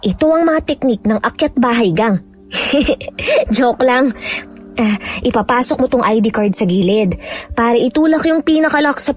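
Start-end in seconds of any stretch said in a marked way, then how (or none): 2.5-3.5 short, light giggle; joking chuckle. Acted. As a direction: chuckle at your own joke. Laughs at her own joke. (hagikgik sa sariling biro)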